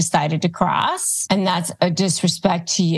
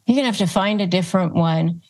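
ordinary delivery

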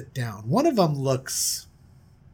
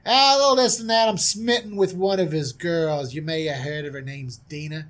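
lightly voiced smitten prince. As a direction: play the big shot admitting a crush. Prince confesses his crush.

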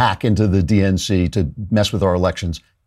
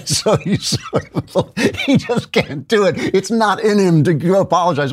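high, slow, laughing through the words; amused disbelief, laughing; 10 semitones higher than usual. Real, not acted. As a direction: still laughing, voice lifted high. Laughing at Trump's clip.

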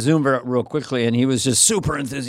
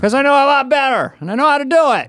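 high loud whisper yell; 12 semitones higher, 4 dB louder than usual. Retold or imitated. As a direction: burst into a whispered shout. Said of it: "he'd patronize whisper".

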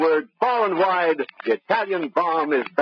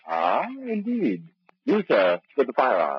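pompous professor; 4 semitones lower than usual. Acted. Professor coolly addresses the gunman, lofty and prim. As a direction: speak like a prim scholar above it all. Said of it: "he talks like that all the time".

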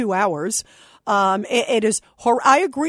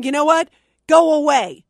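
mock protest shout; 4 semitones higher, 6 dB louder than usual. Protesters should say, imagined quote.

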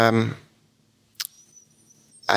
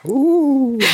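high, otherworldly spectre voice; cold hissing layered whisper; 13 semitones higher, much slower than usual. Acted. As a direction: hiss it like a ghost. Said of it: "Spectre voice".

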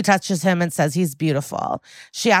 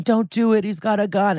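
higher-pitched imitation of worried onlookers; hammed-up cry of warning; mock urgent warning; 4 semitones higher than usual. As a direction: plead with someone not to go, lightly acted. Acted chorus of onlookers warning.

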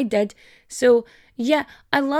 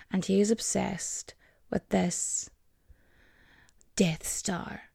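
whispering; 3 semitones lower, 8 dB quieter, slower than usual. Real, not acted. Whispers about the toy.

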